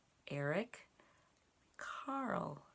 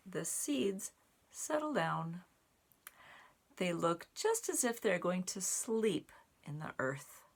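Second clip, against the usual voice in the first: slower, hushed storybook narration; reading to children; 4 dB louder, slower than usual. A narrator's reading. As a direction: tuck the seeds in for winter. Reads picture book aloud.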